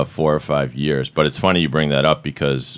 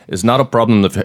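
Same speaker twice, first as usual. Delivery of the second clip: Scottish accent; 6 semitones higher, 3 dB louder than usual. Shown as a demonstration. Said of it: "with a Scottish accent".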